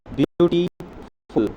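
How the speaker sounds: ब्यूटीफुल stretched slowly, beats split; syllables counted out. Shown as a demonstration. Teacher counting syllables for students, slow and split. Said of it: "एक ये, दूसरा ये".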